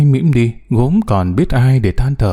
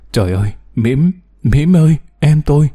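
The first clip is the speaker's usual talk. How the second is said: khóc; 3 semitones higher than usual. Acted. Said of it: "đừng khóc nữa cháu".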